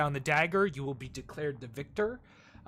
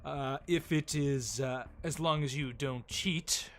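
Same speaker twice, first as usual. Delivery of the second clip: boastful showman Fester; 2 semitones higher, 3 dB louder than usual. Acted. Innkeeper host offering the elf a bet, pompously. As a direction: sell the bet like a grand carnival host.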